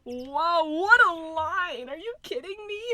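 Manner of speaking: loud, high, drawn-out disbelief; incredulous outburst. Real, not acted. Streamer reacting to an outrageous pick-up line, loud incredulous cry. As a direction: cry it out, stretching the words.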